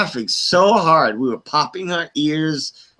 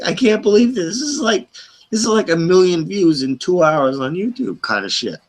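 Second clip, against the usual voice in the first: excited disbelief; 4 semitones higher than usual. Retold or imitated. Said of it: "And I'm like".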